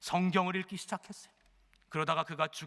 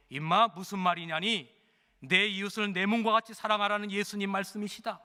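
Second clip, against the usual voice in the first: rough convict; 3 semitones higher, 3 dB louder than usual. Acted. Condemned man scolds young inmate.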